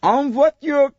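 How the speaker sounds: loud, high call from outside; shouted call. A narrator's reading. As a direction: call out over the platform to board. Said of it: "a voice shouted".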